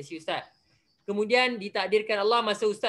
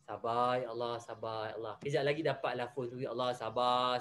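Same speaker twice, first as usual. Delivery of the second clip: much lower and much softer, a hushed murmur; soft patient prayer; 11 semitones lower, 9 dB quieter than usual. Shown as a demonstration. Teacher shows students how to pray for patience quietly. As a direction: demonstrate calming yourself under breath. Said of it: "Allah nak uji sabar kita".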